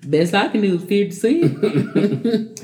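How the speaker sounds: drawn out, slow, laughing lowball offer; slow pawn dealer voice. Retold or imitated. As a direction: stretch it out like a pawnbroker. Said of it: "That didn't sound like something".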